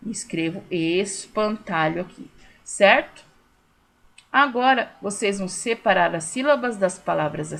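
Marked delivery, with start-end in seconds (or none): 0.7-2.0 espantalho slowly, es-pan-ta-lho; syllable by syllable. Shown as a demonstration. Teacher writing espantalho here, sounding it slowly by syllables. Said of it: "Polissílaba".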